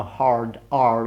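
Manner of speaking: "hard R" with the R rolled hard from the back of the throat; exaggerated hard R. Shown as a demonstration. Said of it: "like this from the back of the throat".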